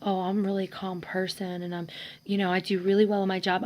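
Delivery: soft, mock-composed imitation of a husband; fake calm. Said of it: "being completely fake and creeping me the hell out with how calm".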